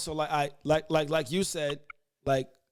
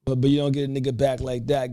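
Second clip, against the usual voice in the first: a rapper's voice; 2 semitones lower, 3 dB louder than usual. Retold or imitated. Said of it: it's the voice of that rapper.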